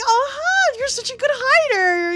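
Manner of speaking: high, loud, gleeful teasing; playful exaggerated taunt; mock gloating. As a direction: crow it at the caught fairy. Gloating at the caught fairy.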